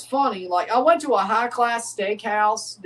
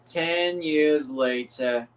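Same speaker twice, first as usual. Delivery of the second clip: lower, slow French narrator line; 5 semitones lower, much slower than usual. Pretend. After cursing his failure, he nails the SpongeBob French narrator voice. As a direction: drop into a mock French narrator, drawing it out. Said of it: "French narrator guy from SpongeBob".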